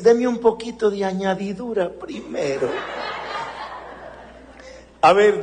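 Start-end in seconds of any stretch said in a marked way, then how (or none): 0.0-2.7 mock greedy request. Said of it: "muchos dicen".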